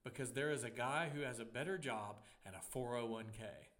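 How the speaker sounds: mock voice of God, loud and stately; lightly put-on grand biblical voice; Morgan Freeman. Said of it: "Morgan Freeman speaking King James to me".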